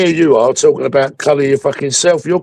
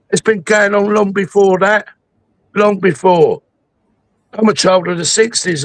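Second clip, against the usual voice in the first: real angry rant, pitched up and hammering; heated, pitched-up tirade; 4 semitones higher than usual. Real, not acted. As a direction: let the anger and passion pour out at him. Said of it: "So here's my anger and here's my passion".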